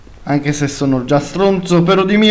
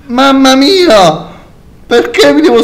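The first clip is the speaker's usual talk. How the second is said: shaken; 7 semitones higher, 6 dB louder than usual. Real, not acted. After scare.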